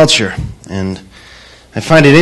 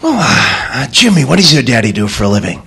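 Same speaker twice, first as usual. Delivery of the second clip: a hint of a polite schoolteacher, a bit quick; lightly voiced teacher. Teacher greeting new pupils, lightly voiced. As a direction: ask it like a friendly first-day teacher. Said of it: "Teacher walks in".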